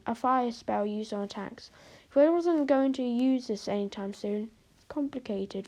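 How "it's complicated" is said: said softly under his breath; quiet. Acted. Fred quietly to himself about the fire spell, softly. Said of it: "Fred said quietly".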